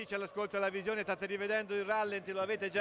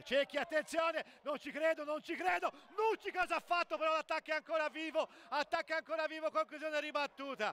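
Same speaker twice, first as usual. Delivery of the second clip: breathless Italian goal commentary; 4 semitones higher, faster than usual. Real, not acted. Keeper save, scramble.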